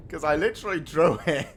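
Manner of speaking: laughing through the words. Real, not acted. Laughing as he tells chat about the draw. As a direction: chuckle while telling it. Laughing at opponent's bad luck.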